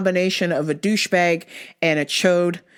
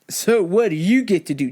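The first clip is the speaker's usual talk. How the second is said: smug customer. Retold or imitated. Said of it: "his attitude was just like".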